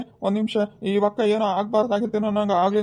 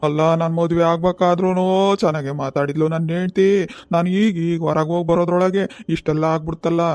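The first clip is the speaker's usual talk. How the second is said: mock wailing. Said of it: "ಯಾಕ್ ಅಳ್ತಿದ್ದೀರಾ?".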